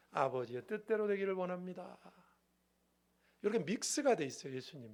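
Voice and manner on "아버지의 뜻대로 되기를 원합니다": steady, level prayer of surrender; calm, held-out final words; submissive prayer. Acted. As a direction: pray it evenly, yielding to the Father. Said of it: "예수님의 신성은 뭐라고 말하죠".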